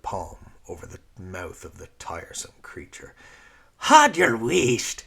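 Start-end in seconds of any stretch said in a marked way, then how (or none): 3.8-5.0 loud, high, slow snap; snapped. Acted. Lyra silencing the creature, angry snap. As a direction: bite the words off. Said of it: "she snapped".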